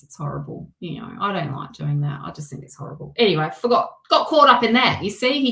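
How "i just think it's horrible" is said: near whisper. Real, not acted. Trailing disgust, breathy.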